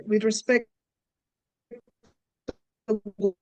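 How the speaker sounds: ordinary delivery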